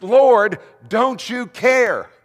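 loud, high, dragged-out protest; indignant cry. Acted. Martha bursting in to complain to Jesus, indignant. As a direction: fling the question at him. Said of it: "She says".

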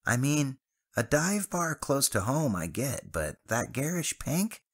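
put-on high, scornful young man; distaste. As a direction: turn your nose up at it. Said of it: "wrinkling his nose in distaste".

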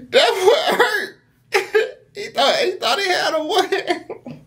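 high-pitched, helpless real laughter through the words; laughing hard. Real, not acted. Reactor mocking the rejected guy's hurt, cracking up. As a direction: crack up while talking, voice way up high.

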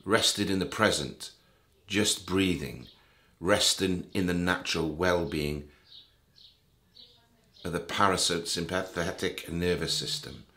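calm meditation guide with long pauses between phrases; guided meditation. Real, not acted. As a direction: guide the listener gently, leaving space after each thought.

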